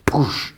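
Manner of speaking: spoken impact whoosh; imitated whoosh. Storyteller as Dozer dives at her, imitated whoosh. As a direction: make a quick diving sound effect.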